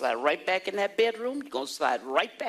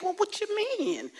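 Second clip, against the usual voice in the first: high, puzzled retort; offended; 14 semitones higher than usual. Retold or imitated. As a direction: sound taken aback and a bit hurt. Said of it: "I was kinda offended".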